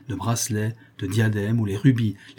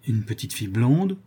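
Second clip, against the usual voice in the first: hesitant question, rising at the end; anxious questioning. Acted. Countess asking whether it was that child, anxious question. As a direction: ask it in disbelief, lifting the last word. Countess asks, old woman confirms.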